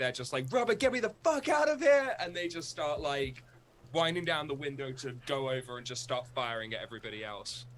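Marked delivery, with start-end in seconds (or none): 0.5-2.1 very high-pitched, loud shrieking scream. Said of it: "They scream it real loudly".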